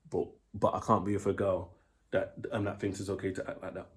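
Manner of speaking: put-on composed boyfriend calmly calling it off. Shown as a demonstration.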